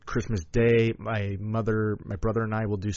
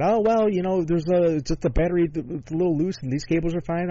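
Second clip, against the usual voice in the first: imitating mechanic; 7 semitones higher than usual. Mechanic quoted in car story.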